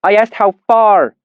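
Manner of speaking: high, loud, sharp snap with stress on "far"; snapping. A narrator's reading. Innkeeper snapping at Rudd, loud and sharp. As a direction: bite the words off, irritated. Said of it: "she snapped at him".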